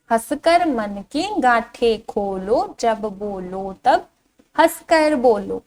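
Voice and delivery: slow, singsong verse reading; drawn-out, lilting children's poem; poem recitation. Shown as a demonstration. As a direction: recite slowly to a class, stretching the vowels. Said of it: "इस कविता को पढ़ना शुरू करते हैं".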